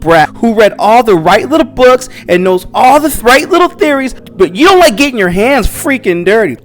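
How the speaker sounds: a hunter tearing into her rival in an argument, loud and angry; angry retort. Retold or imitated. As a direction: snap back at him as if fed up. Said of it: "And she's like".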